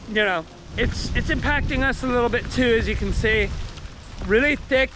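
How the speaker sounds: shouting over wind. Real, not acted. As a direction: call out over wind and rain. Filming outside during the hurricane.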